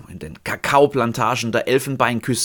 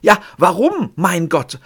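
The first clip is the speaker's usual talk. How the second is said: tormented, pressed out; 4 semitones higher than usual. Acted. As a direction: press the words out in agony. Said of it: "Gequält presst er die Worte durch".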